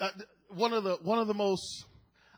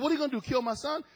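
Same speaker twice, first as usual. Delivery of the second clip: fast, higher-pitched offhand taunt; 4 semitones higher, much faster than usual. Acted. Man talking back to the Lord, taunting. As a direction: rattle off the dare. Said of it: "he began to taunt the Lord".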